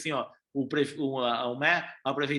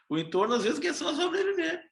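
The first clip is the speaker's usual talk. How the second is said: real laugh breaking in, voice jumping high; laughing through it; 11 semitones higher than usual. Real, not acted. Speaker retrying his point to mayors, laughing. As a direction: repeat the line and crack up at the end.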